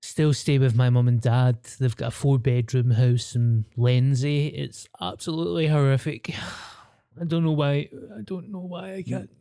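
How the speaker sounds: whiny, sighing spoiled hipster; mock posh hipster. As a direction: play a sulky spoiled rich kid. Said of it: "You're like".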